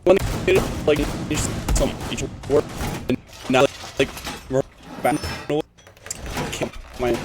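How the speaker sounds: choppy, cutting-out audio; words dropping out over a bad line; bad connection. Real, not acted. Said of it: "You're, you're still really choppy".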